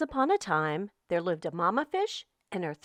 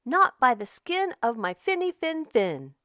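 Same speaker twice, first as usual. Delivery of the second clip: trembling fish; 5 semitones higher than usual. Acted. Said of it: "The little fish trembled and replied".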